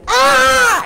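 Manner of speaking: high-pitched reenacted scream "Ah!"; retold scream. Preacher acting out woman seeing snake, high scream. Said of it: "But she went".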